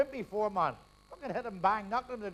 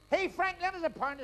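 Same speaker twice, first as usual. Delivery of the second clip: high-pitched call across the bar; 8 semitones higher than usual. Acted. Fella at the bar hailing Frank for money, calling out. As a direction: hail a mate for a favour. Man in bar calls for loan.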